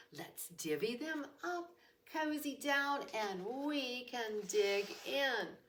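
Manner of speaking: friendly badger. Badger voiced in story.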